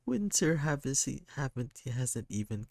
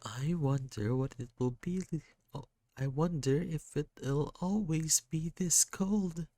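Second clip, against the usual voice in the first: put-on crying kid; 7 semitones higher than usual. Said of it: "They just cry".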